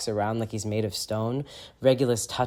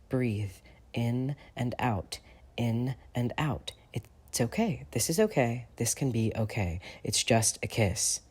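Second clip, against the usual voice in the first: slow hushed self-soothing; softly calming himself; 3 dB quieter, slower than usual. Acted. James alone, softly calming his panic. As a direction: coax your breath back slowly.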